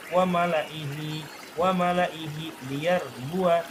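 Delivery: slow "wa malaihi liyar bua", joined on; correct continued reading. Shown as a demonstration. Teacher models reading on, slow "wa malaihi liyar bua". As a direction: recite "malaihi" with its final hi sounded. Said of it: "Itu kalau diteruskan".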